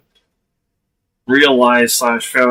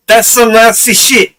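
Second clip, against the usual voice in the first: put-on German accent that slides into Italian, higher and louder; botched German accent, half Italian; mock German accent; 6 semitones higher, 7 dB louder than usual. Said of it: "I'm more of an Italian accent".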